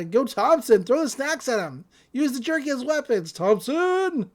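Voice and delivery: rising, high-pitched chant of encouragement; mock cheering. Crowd eggs Thompson on against security, mock cheering.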